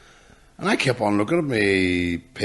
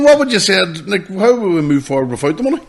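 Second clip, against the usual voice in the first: high, loud incredulous complaint; a higher, louder retold rant; mock outraged rant; 9 semitones higher, 6 dB louder than usual. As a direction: ham up the disbelief. Retold exaggerated rant at home.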